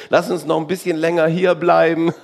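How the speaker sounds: loud, amused mock reluctance; joking plea. Believer asking to stay on earth longer, jokingly loud. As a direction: plead jokingly between laughs.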